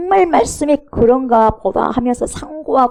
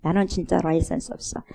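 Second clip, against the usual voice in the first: softer retold confession; quiet mock admission; 6 dB quieter than usual. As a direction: mutter the admission. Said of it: "자기 입으로 토해내는".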